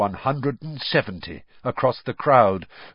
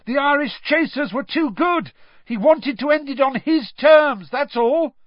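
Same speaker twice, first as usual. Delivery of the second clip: high, emphatic raised voice; shouting back; 13 semitones higher, 4 dB louder than usual. A narrator's reading. Harry defending the seeker over the noise, shouting. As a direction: argue it loudly over the din. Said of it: "Harry shouted back over all the noise".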